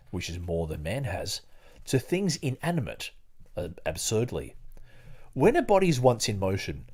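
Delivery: put-on measured, deliberate reading of old prose; formal reading aloud. Host reading Hobbes on imagination to the podcast, a formal measured reading. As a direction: read it like a careful recital of a classic text.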